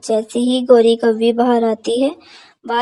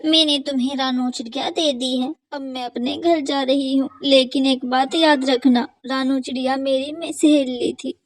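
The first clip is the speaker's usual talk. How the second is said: softer, subdued parting words; lightly voiced farewell; 2 semitones higher, 3 dB quieter than usual. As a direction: leave with a quiet warning. Final exchange of crow, sparrow. (धीमी उदास आवाज़)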